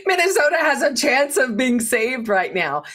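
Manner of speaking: real delight, voice lifted; thrilled outburst after a laugh; excited. Real, not acted. Elated after laughing hallelujah.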